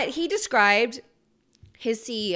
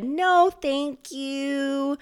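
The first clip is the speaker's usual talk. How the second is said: mock dismissive; 4 semitones higher, much slower than usual. Mock refusal quoted from reporters.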